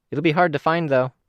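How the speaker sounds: a hint of a bubbly kid showing off; young girl's voice. Kenzie's voice, narrator reading.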